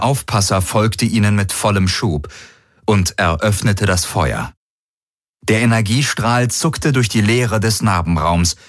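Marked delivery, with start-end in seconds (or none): none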